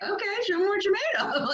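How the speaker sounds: high, laughing challenge, voice lifted; laughing dare. Retold or imitated. Leader recalling her challenge to angry Lori, laughing. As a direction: laugh through the dare, playful and bold. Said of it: "I was like".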